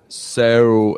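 "so" with an attempted Australian curved vowel; attempted Australian accent. Shown as a demonstration. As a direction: try "so" the Australian way, bending the vowel. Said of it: "I can't do it. I try".

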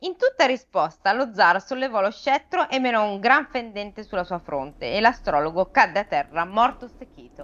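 measured read-aloud storytelling; expressive audiobook-style narration; story narration. A narrator's reading. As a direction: read the fable to listeners. Reads the fable aloud.

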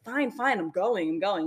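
lightly imitated reluctant surrender; grudging giving in. Dreamer imitating the kid finally leaving, grudging giving in. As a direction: give in grudgingly, as a mild imitation. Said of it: "that's how he did it".

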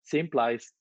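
"place" said like "plice"; altered vowel in place. Pretend. Playful vowel after failed British accent.

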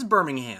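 "Birmingham" ending in a clear, full HAM; Alabama pronunciation. Shown as a demonstration. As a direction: give "Birmingham" its whole "ham". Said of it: "in Alabama, it is".

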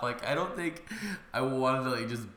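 ordinary talk

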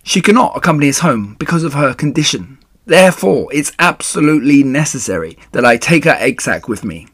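emphatic, somewhat loud explanation; urgent pleading. Acted. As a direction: press the case earnestly. Wilbur urgently pleading with rat.

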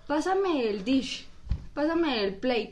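slow imitation of a friend's Spanglish; Spanglish, easing slowly into English DISH and PLATE. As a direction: mimic halting Spanglish, unhurried. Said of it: "quería intentar hablar inglés".

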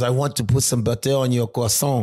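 lightly put-on French accent; touch of French accent. Shown as a demonstration. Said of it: "the French person says".

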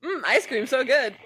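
giggling "ice cream so good"; laughing mock savoring. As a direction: pretend to savor while laughing. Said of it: "just be like".

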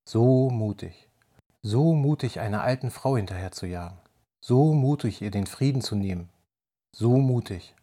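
breathy vintage purr. Acted. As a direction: purr it like a temptress. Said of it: "hauchte sie".

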